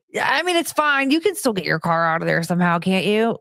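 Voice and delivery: fast, smug mock reassurance; fake-innocent, needling the neighbor; mocking sarcastic voice. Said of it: "and be like".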